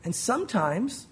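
closing prayer. Real, not acted. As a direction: lead the church in prayer, pitched low.

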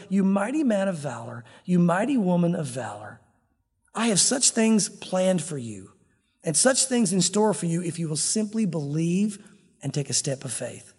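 quiet, earnest encouragement; tender affirmation. Acted. God tenderly addressing the listener.

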